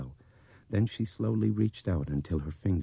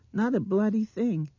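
very high, loud child's mimicry; mimicking little girl; 6 dB louder than usual. A narrator's reading. Blind girl repeating Nick's words, high mimicry. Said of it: "she mimicked".

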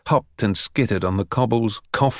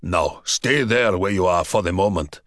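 shouted back; 3 semitones lower than usual. A narrator's reading. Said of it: "Borovitz shouted back".

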